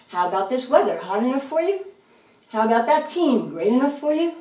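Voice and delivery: chatty small talk, questions lilting upward; small talk demo. Shown as a demonstration. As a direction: toss out cheery-sounding chit-chat openers. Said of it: "It's called small talk".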